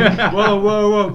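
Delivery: high, loud mock shock; hammed-up surprise; exaggerated whoa. Mock alarm at the question.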